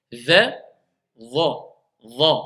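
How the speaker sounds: Dha low and heavy, tongue pressed inside; emphatic dha. Shown as a demonstration. Teacher showing the emphatic dha to students. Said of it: "On entend dha et dha".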